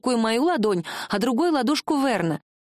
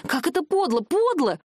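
indignant outcry, pitched up; outraged; 6 semitones higher than usual. Acted. Heroine accusing Tern of the magic's meanness. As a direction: hurl the accusation.

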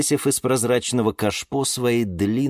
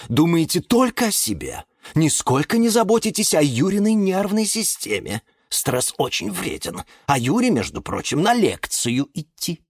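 high, reproachful lecture; high-pitched fretful chiding; fussy elder peacemaker; 9 semitones higher than usual. A narrator's reading. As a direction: scold the squabbling youngsters. Fussy elder plant scolds.

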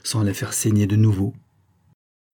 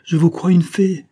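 higher, louder and full of conviction; 8 semitones higher, 6 dB louder than usual. A narrator's reading. Suitor answering her bitter question, ardent conviction. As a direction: declare it as fervent truth. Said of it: "répondit-il avec conviction".

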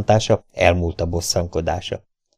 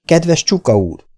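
high, drawn-out blurted tease; quick-witted prompt, stretched out high; sudden interjection; 9 semitones higher, 4 dB louder than usual. A narrator's reading. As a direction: jump in with the name, pitched up. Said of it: "vágta rá hirtelen Joe".

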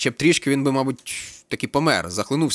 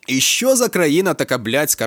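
slow, louder, bitter sigh of a question; bitter exclamation; 5 semitones higher, 5 dB louder, slower than usual. A narrator's reading. Captain suddenly complains to the student, slow and bitter. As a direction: lament the whole country, drawn out. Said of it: "раптом каже Микола Іванович".

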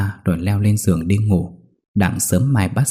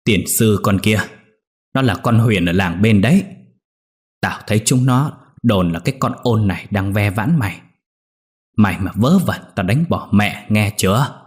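scolding. Acted. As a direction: warn him sternly, old mother's threat. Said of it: "rồi quát".

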